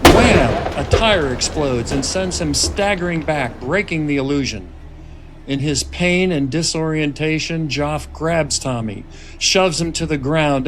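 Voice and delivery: measured screenplay narration; script narration. A narrator's reading. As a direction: read the scene directions steadily. Reads screenplay narration aloud.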